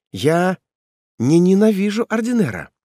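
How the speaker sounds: put-on high girl's voice, rising with courage; shy daughter. Ethel confesses her love to her father, girlish.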